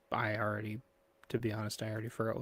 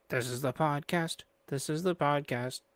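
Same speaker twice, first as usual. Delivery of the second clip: podcast intro; 3 semitones higher, 4 dB louder than usual. Shown as a demonstration. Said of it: "podcast intro".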